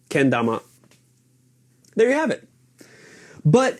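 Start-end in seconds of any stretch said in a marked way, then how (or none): 0.1-0.6 kendama flat at first, then dropping; japanese pitch accent. Shown as a demonstration. Demonstrating the correct Japanese kendama for viewers. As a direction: kendama with a flat start and a fall. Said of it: "It starts flat and then drops down".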